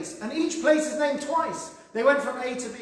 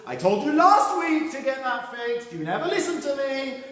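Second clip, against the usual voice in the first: a touch of wifely reproach; mock nagging wife; 3 semitones higher than usual. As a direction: scold your husband in mild exasperation. Joke wife scolds her husband.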